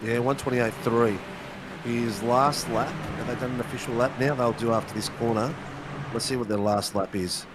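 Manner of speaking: hoarse, croaky voice; talking through a croaky throat. Real, not acted. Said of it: "Excuse my, uh, croaky voice".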